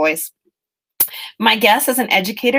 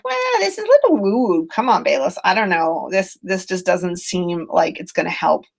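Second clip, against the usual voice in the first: sceptical listener. Retold or imitated. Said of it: "some of you may be going like".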